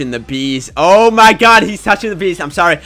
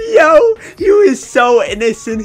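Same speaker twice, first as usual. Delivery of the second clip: pitying cry; 8 semitones higher, 5 dB louder than usual. Real, not acted. Pitying the dead rabbit.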